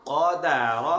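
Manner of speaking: क़दर called out loud and firm. Shown as a demonstration. Teacher asks the child to say the word loudly. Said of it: "ऊंची आवाज से क़दर".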